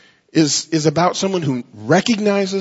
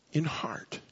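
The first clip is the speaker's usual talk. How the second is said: whisper; 14 dB quieter than usual. Acted. Whispered close of verse.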